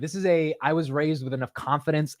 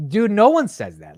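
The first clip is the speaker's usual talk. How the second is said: loud disbelief; 8 semitones higher, 8 dB louder than usual. Real, not acted. Rejecting dictionary audio.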